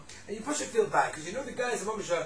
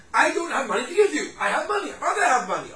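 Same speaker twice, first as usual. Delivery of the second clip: laughing excuse; 6 semitones higher, 7 dB louder than usual. Retold or imitated. Person dodging a loan request.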